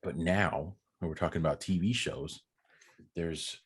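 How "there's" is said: hushed whisper for effect. Acted. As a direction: whisper it dramatically. Dramatic whisper.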